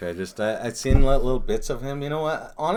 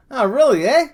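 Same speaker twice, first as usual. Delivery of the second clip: higher, louder whiny mock voice; Bill Burr impression; 10 dB louder than usual. Quoting Bill Burr's bit to a friend, whiny and loud. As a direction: whine it like the comic. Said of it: "got that whiny kinda".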